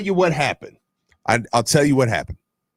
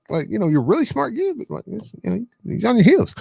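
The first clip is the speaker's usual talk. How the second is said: laughing pep talk; 14 semitones higher, faster than usual. Retold or imitated. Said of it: "I'm like".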